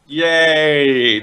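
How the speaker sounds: long, drawn-out sarcastic yay; mock cheer. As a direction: cheer with fake enthusiasm. Sarcastic cheering at pointless plot.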